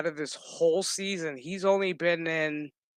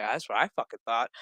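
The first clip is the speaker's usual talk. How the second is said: bitter retort; 5 semitones lower, faster than usual. Retold or imitated. Own bitter reply.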